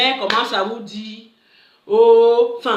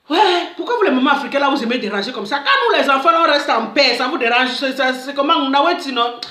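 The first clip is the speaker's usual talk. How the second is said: mock irritated rant; 3 semitones higher, 3 dB louder than usual. Daughter complaining to her mother, mock irritated rant. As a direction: scold the African mothers, half-joking. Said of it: "Et toi, même, nerveux".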